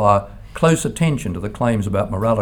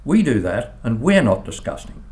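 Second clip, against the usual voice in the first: imitating a child's stern rebuttal, opening high; mildly stern contradiction, high at first then settling; stern reply; 4 semitones higher than usual. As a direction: retell a youngster firmly setting someone straight. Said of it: "Samuel replied sternly".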